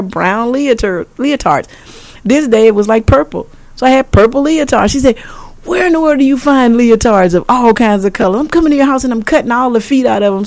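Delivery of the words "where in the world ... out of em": high, fast mock outrage; imitating a daughter yelling; mock scream. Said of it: "she's just screaming".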